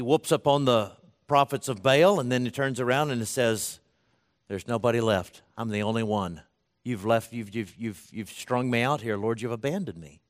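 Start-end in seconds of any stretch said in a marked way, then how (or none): 4.5-10.2 sinking quieter, trailing to a near-whisper; a worn-out prophet giving up; discouraged and depressed. Retold or imitated. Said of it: "Discouraged and depressed".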